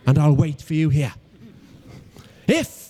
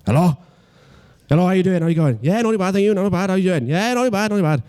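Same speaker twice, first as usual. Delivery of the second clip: cheery, slightly higher re-enacted phone chat; happy phone greeting; 4 semitones higher than usual. Comedian answers his girlfriend's phone call, happily. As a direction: act out a happy call with light pep. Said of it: "very happy, very happy".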